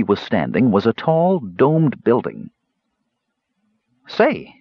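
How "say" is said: high, eager exclamation; a kender spotting something, pitched way up; exclaiming. A narrator's reading. Kender Earwig noticing the domed building, high exclaim. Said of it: "exclaimed Earwig".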